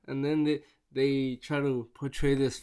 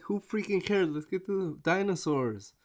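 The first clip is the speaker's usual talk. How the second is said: higher, quick "Who freaking cares?" tossed off; exasperated; 5 semitones higher, 3 dB quieter than usual. Retold or imitated. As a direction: fire off "Who freaking cares?" high and impatient. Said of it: "I'm like".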